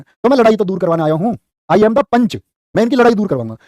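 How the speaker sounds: ordinary talk, nothing marked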